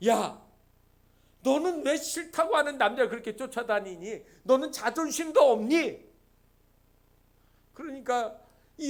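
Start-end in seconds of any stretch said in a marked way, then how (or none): 0.1-6.1 mildly angry scolding, firmer at the end; angry older brother. Acted. Drama brother scolding his lovestruck sister, mildly angry. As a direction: chide her with a touch of anger. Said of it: "오빠가 화가 났어요".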